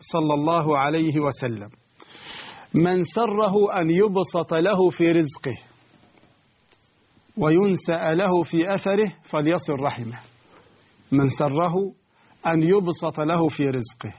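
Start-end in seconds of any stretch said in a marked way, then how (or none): 2.7-10.2 hadith recitation. Acted. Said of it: "قال رسول الله".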